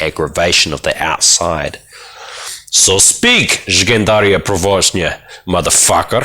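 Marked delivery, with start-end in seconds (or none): 2.7-6.2 quoting Loftus. Acted. Quoting Loftus's meditation chant.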